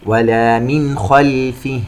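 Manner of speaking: slow chant, clear unhummed n in "من" before "خلفه"; throat izhar. Shown as a demonstration. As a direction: sound "من" cleanly into "خلفه". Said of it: "إظهار حلقي". (ترتيل بإظهار نون "من" قبل "خلفه")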